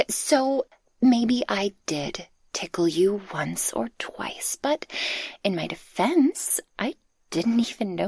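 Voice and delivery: slow guilty whisper; sheepish whisper. Acted. Speaker owning up to tickling, sheepish slow whisper.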